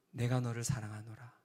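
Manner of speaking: low, soft spoken line, not sung; hushed spoken echo. Retold or imitated. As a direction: say it quietly like words echoing after a bell. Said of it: "제아의 종소리 있잖아요".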